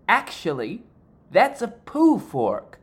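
slow, high and deadpan; calmly unhinged reply; slow, high, mock-polite retort; snapping back. Insane waiter snaps back.

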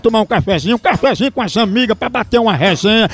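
upbeat radio ad pitch; radio ad read. Acted. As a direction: sell the coffee brightly. Reads live coffee ad.

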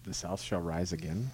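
soft, low take on a Southern accent; changed accent, understated. Shown as a demonstration. Saying the line on request, understated Southern accent. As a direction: say it low and quiet with a hint of the South. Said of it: "he changed his accent".

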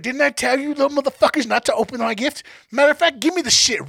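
imitating an angry mother scolding; scolding mom. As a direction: bawl the kids out as the angry mom. Mom scolding kids over opened gift.

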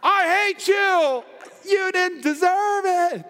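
high, slow mock spite. Churchgoer mocked for nursing a grudge, high mock spite. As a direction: whine out the grudge, hammed-up. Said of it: "You're like".

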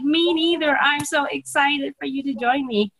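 high, bright burst of enthusiasm; excited. Retold or imitated. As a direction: gush about them joining. Enthusing to new recruit.

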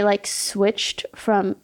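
talking through a burp; burping while talking. Real, not acted. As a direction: burp mid-sentence. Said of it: "sorry, I'm, like, burping while talking".

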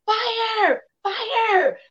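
put-on high, loud child's cry of fire; retold scream. A small girl screams to warn of the kitchen fire, high and loud. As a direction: yell it out like a scared little girl. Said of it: "I started screaming".

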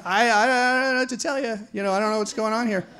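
high, stammering mock helplessness; bewildered protest. Handcuffed suspect answers barking officer, high bewildered protest.

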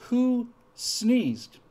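high, loud demand; Stalin shouting. Retold or imitated. Stalin demands again who sneezed, a loud mock shout. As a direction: shout it at the crowd like a furious tyrant. Stalin voiced in retold joke.

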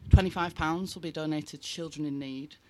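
gasping for air; breathless, still panting; out of breath. Real, not acted. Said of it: "Sorry, I'm well out of breath".

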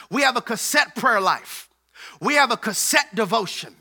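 rising preacher cadence, each line punched on have; preaching. Acted. Pastor driving home the point to the congregation, preaching. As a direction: hammer the repeated line like a sermon.

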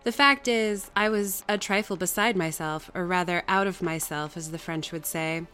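measured audiobook reading; story narration. A narrator's reading. Reader telling Jane's story to listeners, measured narration. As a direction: read it out like a classic novel. Reads the novel aloud.

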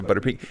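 pecan said quickly as "PEE-kun"; mispronounced pecan. Retold or imitated. Guest orders ice cream his old way, pecan as "PEE-kun". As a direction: start pecan with a stressed PEE. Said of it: "Nobody corrected me".

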